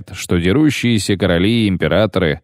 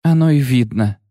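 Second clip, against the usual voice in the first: high scoffing quip; scornful snort; 6 semitones higher than usual. A narrator's reading. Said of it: "фыркнула Мэва".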